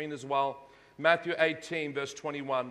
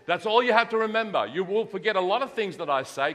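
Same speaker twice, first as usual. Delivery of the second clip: emphatic preaching; 4 semitones higher, 6 dB louder than usual. Real, not acted.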